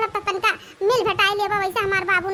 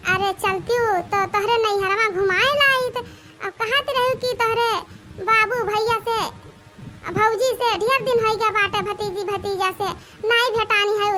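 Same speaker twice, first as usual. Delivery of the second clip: put-on butter up the old woman with an invitation; sweet-talking bride. Bride invites mother-in-law.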